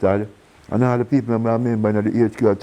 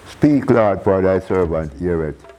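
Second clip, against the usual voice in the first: raised call of Samuel; answering the Lord; slower than usual. Retold or imitated. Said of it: "feel like Samuel with Elijah".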